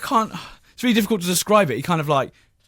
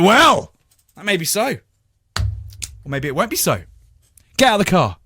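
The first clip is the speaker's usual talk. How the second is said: pompous policeman; 3 semitones higher than usual. Retold or imitated. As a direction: ponder it theatrically, then command. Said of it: "And he went".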